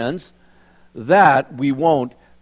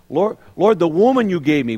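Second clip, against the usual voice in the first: Adam complaining; 2 semitones higher than usual. Retold or imitated. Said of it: "Remember who said that first? Adam".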